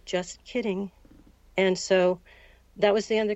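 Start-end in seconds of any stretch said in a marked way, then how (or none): 0.0-0.9 softly, under the breath, retelling her; quiet retold aside; said very quietly. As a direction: drop the voice to a hush for the punchline. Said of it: "she very quietly said".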